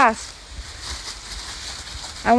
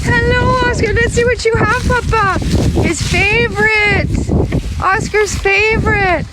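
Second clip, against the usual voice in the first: talking to a pet; 6 semitones higher than usual. Real, not acted. Talking to the dog.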